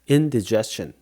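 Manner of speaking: indigestion with a short unstressed "dih"; no die sound. Shown as a demonstration. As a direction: say indigestion as in-dih-JES-chun. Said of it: "굳이 die라고 하지 않아요".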